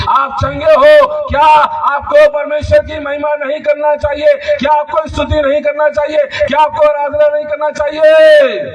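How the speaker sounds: high, loud rhetorical questions fired at the congregation; shouted preaching. Real, not acted. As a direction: preach it at full force, pitch held high. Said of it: "मैं देखो तीन दिन से चिल्ला रहा हूँ". (ज़ोर से चिल्लाकर उपदेश)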